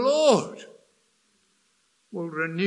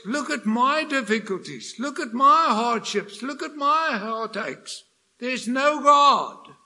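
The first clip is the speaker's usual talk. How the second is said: defiant unbeliever; 2 semitones higher, 5 dB louder than usual. Retold or imitated. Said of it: "you know what they say".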